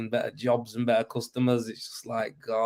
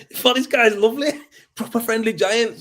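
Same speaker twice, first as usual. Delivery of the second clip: high and louder, words breaking into laughter; laughing; 10 semitones higher, 5 dB louder than usual. Real, not acted. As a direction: laugh through the relief of it. Laughing while retelling relief.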